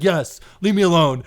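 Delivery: loud acted brush-off; fed-up dismissal. Coworker dismissing an apologetic storyteller, fed-up. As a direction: shut the conversation down loudly.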